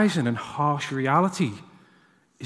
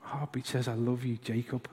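tender repeat; 3 semitones lower, 9 dB quieter than usual. Retold or imitated. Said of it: "repeating the moment".

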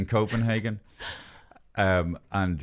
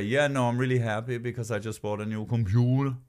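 put-on light Danish accent, odd on "computer"; 2 semitones higher than usual. Dane happy with new computer, light Danish accent. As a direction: talk normally, then slip Danish on "computer". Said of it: "they'd be talking very normally".

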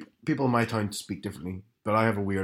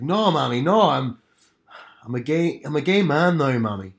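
pleading Belfast son, pitched up and louder; imitated Northern Irish lad, lifting on the key words; strong Belfast accent; 3 semitones higher, 5 dB louder than usual. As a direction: protest to mum in thick Belfast. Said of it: "I put on a strong Belfast there".

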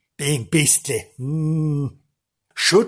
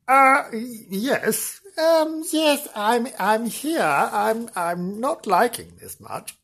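high, hesitant reporter voice; Janice; 5 semitones higher than usual. Pretend. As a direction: play a reluctant, nervous field reporter. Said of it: "Let's pass over to Janice".

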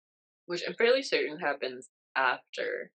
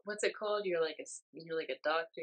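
gushing fan; 6 semitones higher, faster than usual. Retold or imitated. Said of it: "he goes".

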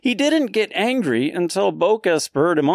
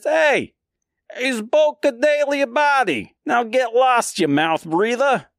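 high-pitched, heckling New York voice; New York accent; 8 semitones higher than usual. Acted. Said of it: "they all have that accent".

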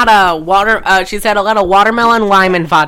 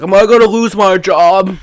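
lifeguard; 4 dB louder than usual. Retold or imitated. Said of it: "the lifeguard's like".

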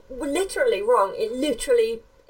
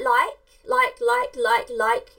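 mock valley girl likes; slower than usual. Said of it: "they say things like".

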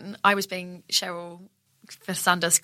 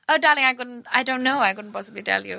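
film-star darling, lightly hammed-up; Audrey Hepburn; 4 semitones higher than usual. Staying in character under questioning, hammed-up film-star evasion. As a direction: play an evasive screen star, pitch slightly lifted. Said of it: "Basically being Audrey Hepburn".

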